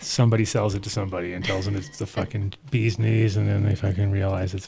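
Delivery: drowsy, edibles kicking in; stoned. Real, not acted. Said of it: "this is the edibles kicking in".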